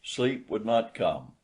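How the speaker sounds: ordinary delivery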